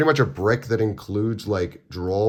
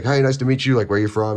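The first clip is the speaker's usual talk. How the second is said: higher, louder eager greeting; friendly chatterbox; 4 semitones higher, 5 dB louder than usual. Retold or imitated. Nicest opponent greets the player at the table, chatty friendliness. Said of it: "it's, like, the nicest guy".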